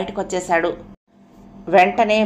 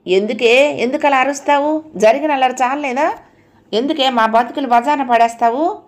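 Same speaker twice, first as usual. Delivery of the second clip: higher, sharp mother's rebuke; mother scolding daughter for shouting; fierce scolding; 5 semitones higher than usual. Acted. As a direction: scold your daughter hard, pitch raised. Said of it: "Savitri తీవ్రంగా అంది".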